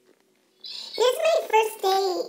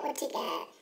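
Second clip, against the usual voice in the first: softer, lower echo of the question; soft repeat; 5 semitones lower, 10 dB quieter than usual. Acted. Girl picking a snack alone, softer lower musing echo. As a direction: murmur it again to yourself.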